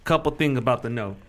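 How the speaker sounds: lightly voiced hustler giving orders; a hint of a tough crew leader; streetwise gambler boss. Gambler coaching his green crew, lightly bossy.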